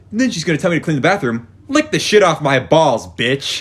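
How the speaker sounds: acting out a fed-up employee; imitated griping. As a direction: rattle off a worker's exasperated complaint. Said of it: "starts complaining about his day".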